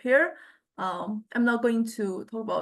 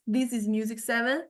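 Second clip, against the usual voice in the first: robotic vocoder voice. Shown as a demonstration. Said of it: "robotic, robotic, mechanic".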